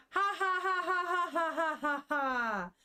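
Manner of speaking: high, eerie mock laugh fading out; a laugh that turns unhinged; creepy laugh. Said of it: "laughing looks a little fucked up".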